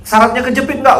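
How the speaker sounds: high, loud rapid-fire questions; imitated ustadz going full throttle; retold harsh grilling. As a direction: grill him relentlessly. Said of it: "Langsung digas".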